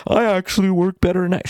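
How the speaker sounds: imitating a viewer claiming night work, mock whiny; mocking excuse. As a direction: parody someone's lame excuse.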